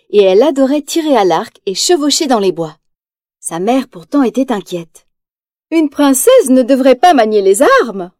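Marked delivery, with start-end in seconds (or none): 5.7-8.1 lecturing scold. Acted. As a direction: scold her like a proper queen. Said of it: "la sermonnait-elle".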